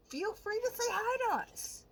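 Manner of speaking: high, sugary fake-welcoming voice; mock sweet invite. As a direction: chirp it like a creepy friendly host. Voicing the boys' friendly invite.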